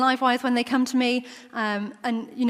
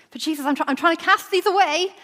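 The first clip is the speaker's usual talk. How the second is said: whiny protest; 6 semitones higher, 3 dB louder than usual. Acted. Pleading with Jesus in skit.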